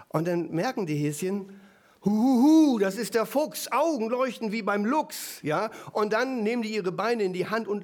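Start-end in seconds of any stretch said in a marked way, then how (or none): 2.0-5.4 frightened bunnies. Retold or imitated. Bunnies recognizing the fox.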